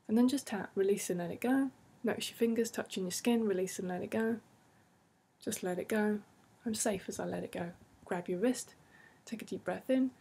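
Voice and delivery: even, soothing guided voice; guided tapping script. Acted. Therapist guiding listeners through tapping in a soothing voice. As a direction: keep the rhythm calm and steady.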